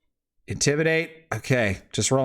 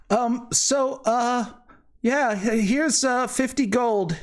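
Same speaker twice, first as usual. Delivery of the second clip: high, polite lady voice; wife's voice; 11 semitones higher than usual. Acted. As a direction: hand over the gold in a lifted voice. Wife of client hands over gold.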